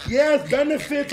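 slow, drawn-out mock delight; imagined delighted reaction. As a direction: stretch it out as pretend relish. Imagines her pleased reaction.

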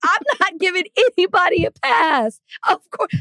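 indignant outburst. Real, not acted. Refusing to let anyone off the hook, indignant. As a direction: cry out in real indignation, pitch shooting up.

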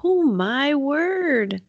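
slow, drawn-out dismay; shocked. Real, not acted. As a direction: let it sink in slowly. Listener shocked by gore.

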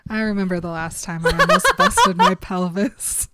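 retold line cracking up with laughter; laughing. Co-host retelling Bella's memory of her honeymoon, laughing. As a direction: giggle through the character's words.

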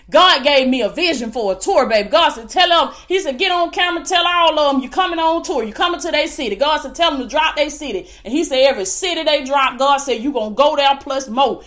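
lively, driving preacher's delivery; fervent preaching. Real, not acted. Preacher rallying online viewers to faith, fervent preaching. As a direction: preach it with mounting conviction.

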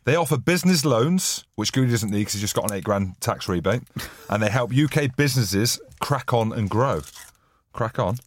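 clumsy podcast sponsor read; bad ad read. Real, not acted. Host reading the new sponsor's copy aloud, bad ad read. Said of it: "That was the worst reading I've ever heard".

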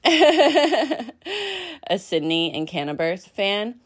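slow, laughing through the words; giggly fan gush. Real, not acted. Gushing laugh about guest.

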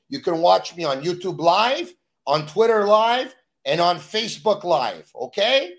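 rising, pleading phone lecture; dodging a caller. Real, not acted. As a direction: brush off the caller, pleading for support.

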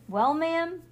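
high cowboy drawl. Acted. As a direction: tip the hat, cowboy style. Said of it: "You sound like a cowboy".

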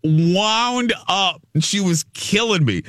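high giddy gossip voice; excited high retelling. Real, not acted. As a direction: gush about Steph, high and bright.

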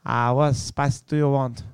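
put-on slow, improvised Asian-accented server; mock Asian accent. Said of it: "I don't know what accent that was".

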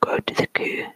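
story poem whispered in a put-on Scottish accent. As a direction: whisper the tale with a playful Scots accent. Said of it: "read it with the proper accent".

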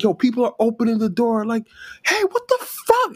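put-on high Toronto slang accent. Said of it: "I'm trying to do the Toronto accent".

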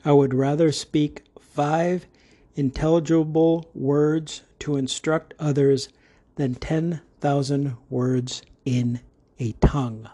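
a second careful read of the verse; scripture reading repeated. Shown as a demonstration. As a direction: read it through again, steady.

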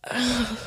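soft, mock open-mouthed sigh; creep's gaping breath. Imitating the man staring at her, gross gaping sigh. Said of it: "He's staring at me like".

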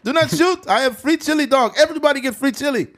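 put-on very high, loud panicked German accent; begging German. German soldier begging not to be shot, high panicked mock German. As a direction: beg frantically in a cartoon German voice. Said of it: "he's like".

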